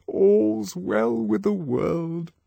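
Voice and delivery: murmured. Acted. DHC in a satisfied murmur.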